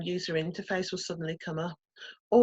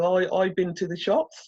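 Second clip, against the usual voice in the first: put-on Brummie accent; 3 dB louder than usual. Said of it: "my awful Brummie accent".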